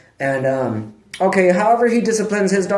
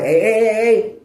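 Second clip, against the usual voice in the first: retold yell; 6 semitones higher than usual. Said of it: "And I was like".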